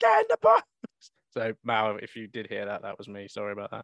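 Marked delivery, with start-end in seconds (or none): 0.0-0.7 very high-pitched, very loud, shrill scream. Retelling shouting at a player from the stands: imitating someone screaming. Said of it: "I'm like".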